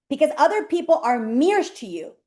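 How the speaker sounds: usual speaking voice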